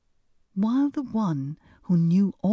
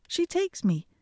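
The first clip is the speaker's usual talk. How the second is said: takes jumps much higher on the repeat; emphatic repeat; 11 semitones higher than usual. A narrator's reading. Hans pleads with father, high emphatic repeat. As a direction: toss the repeat up high and cheeky. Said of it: "If she takes me".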